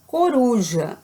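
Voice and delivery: "Coruja" with a drawn-out, stressed ru; "Coruja" said alone, weight on ru; stressed syllable shown. Shown as a demonstration. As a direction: lean on the middle syllable of "Coruja". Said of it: "A sílaba com mais força".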